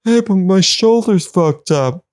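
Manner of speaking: very high cartoon voice, tossed off; squeaky plant voice. Plants lost in the desert, in a squeaky high voice. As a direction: squeak it out like a tiny plant creature.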